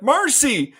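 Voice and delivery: high-pitched mock holler; hammed-up call after someone; retold yell. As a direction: yell out her name, imitating the character. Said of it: "he yells Marcy again".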